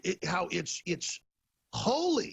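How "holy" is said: mock-reverent, high-pitched "holy"; mimicked pious pronouncement. Host mimicking Tim Cook calling it holy, mock-pious. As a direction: lift it high, quoting him. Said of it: "he said".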